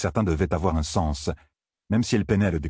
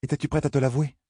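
higher, teasing inner voice; small voice in her head; 8 semitones higher than usual. Acted. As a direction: needle her from inside. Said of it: "une petite voix dans sa tête".

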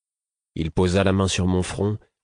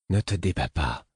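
imploring; 3 dB quieter than usual. A narrator's reading. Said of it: "d'un ton implorant".

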